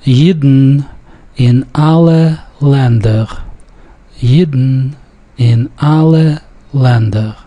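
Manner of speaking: Yidden in two syllables with a syllabic N; careful model reading, Yidden ending on a syllabic N, dark L in alle. Shown as a demonstration. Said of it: "The N in Yidden is syllabic".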